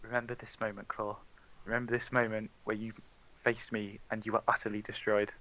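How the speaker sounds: low, very soft in-character murmur; menacing whisper to someone. Acted. Villain to a player passing out, hushed whisper. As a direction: speak low and hushed, close to the listener. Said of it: "he kind of whispers to you".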